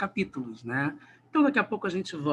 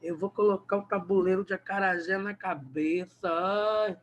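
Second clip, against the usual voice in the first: put-on Bahian accent. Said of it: "E o baiano fala".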